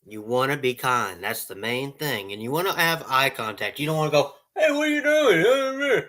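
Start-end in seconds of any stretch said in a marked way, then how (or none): 4.6-6.0 very high, slow sing-song call; hammed-up careless worker; mock rude call. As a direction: call out without looking at them. Rude worker without eye contact.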